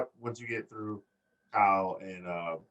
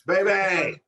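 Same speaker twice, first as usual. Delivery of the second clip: high, loud imitated wrestling call; drawn-out crowd-style yell; catchphrase shout; 7 semitones higher, 5 dB louder than usual.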